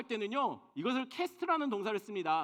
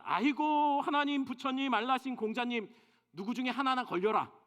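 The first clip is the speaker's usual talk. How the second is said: aimless wailing cry; 5 semitones higher, 3 dB louder than usual. Retold or imitated. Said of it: "이런 식으로 그냥 대상 없이 부르짖었습니다".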